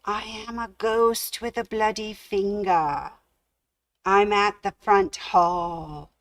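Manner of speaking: ghostly moan. Acted. Ghost moaning to the sleeping man from downstairs, faint. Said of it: "someone moaning these words".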